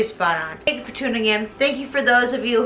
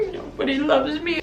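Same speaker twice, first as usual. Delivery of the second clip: small, pitiful mock whimper; mock crying. Phantom crying once they go, small mock-tearful whimper. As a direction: whimper it in self-pity. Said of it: "he's crying".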